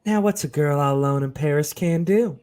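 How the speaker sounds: put-on a light French accent again. Ashley alone in Paris, musing in a light French accent. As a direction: slip back into the French accent. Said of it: "put on the accent again".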